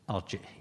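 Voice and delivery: "أرجئه" as arji'-hi; hamza with kasra. Shown as a demonstration. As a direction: glottal stop in "أرجئه", then a short i ending. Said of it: "بالكسر".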